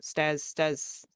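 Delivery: halting, trailing attempts at a name; flustered searching. Flustered elf trying to remember a place name, halting and searching. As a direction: grope for the forgotten word, stopping short. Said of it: "can't even remember the name of it".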